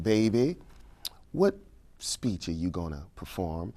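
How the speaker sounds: retold in a light Alabama accent. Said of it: "she said in her Alabama accent".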